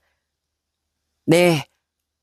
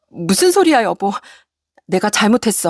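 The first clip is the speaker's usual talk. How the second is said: begging wife. Acted. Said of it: "애원하는 아내를".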